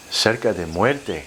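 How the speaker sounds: slow, careful broken Spanish. Retold or imitated. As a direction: speak the Spanish slowly like a learner. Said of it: "in my broken Spanish".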